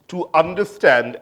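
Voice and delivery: "understand" set apart with emphasis; stress on understand. Real, not acted. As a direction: lean on the word "understand". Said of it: "I emphasize the word understand".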